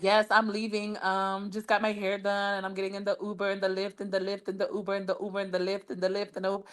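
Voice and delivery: quiet, fast, airy mock of a friend listing rides; mocking girlfriend voice. Mocking a friend who keeps naming ride apps, quiet and fast. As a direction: rattle off Uber and Lyft in a breezy mocking voice. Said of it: "She was like".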